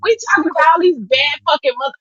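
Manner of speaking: imitating her friend's worked-up exclaim; excited quote. Quoting Lyric to the group, fast excited outburst. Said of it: "She said".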